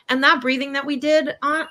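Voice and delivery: ordinary delivery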